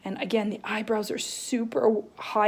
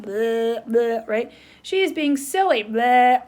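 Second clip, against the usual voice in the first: silly tongue noise; 5 dB louder, slower than usual. Shown as a demonstration. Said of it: "sticking her tongue out".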